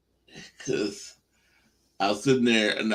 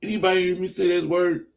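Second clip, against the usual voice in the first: calling out to audience; 8 semitones higher than usual. Retold or imitated. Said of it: "so I said like this".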